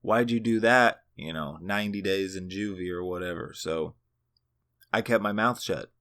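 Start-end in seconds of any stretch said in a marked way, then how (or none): 0.0-1.0 wag a finger with your voice, playfully; mock scolding cop. Cop catching the teen, mock scolding warning. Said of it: "be like".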